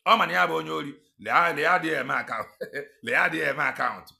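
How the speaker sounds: loud, scornful jeer; loud scornful jeer at the thief; loud mocking call. Real, not acted. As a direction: call him out loudly.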